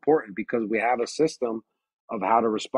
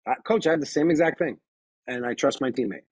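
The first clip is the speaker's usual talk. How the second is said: calm confident reply; 3 semitones higher than usual. Shown as a demonstration. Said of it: "agree with them".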